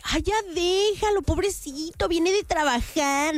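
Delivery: high, drawn-out mock pity; hammed-up pleading mom; imitating pleading mom. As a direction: coo in defence like a doting mother. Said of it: "cuando escucha que lo regaño".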